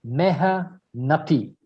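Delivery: "Mehnati" drawn out syllable by syllable. Shown as a demonstration. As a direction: teach "Mehnati" very slowly, with pauses between parts. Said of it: "More slowly".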